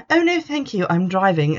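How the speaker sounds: high-pitched opening, mockingly polite; mock polite refusal. Reviewer mimics someone turning down drinks at lunch, mock polite.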